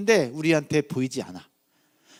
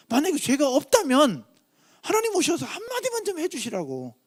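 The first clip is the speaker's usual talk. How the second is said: higher-pitched, acted-out aggrieved appeal; wronged pleading; 5 semitones higher than usual. Preacher voicing Job's complaint to God, aggrieved pleading. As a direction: plead your innocence as an exasperated Job. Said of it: "너무 억울하기 짝이 없습니다".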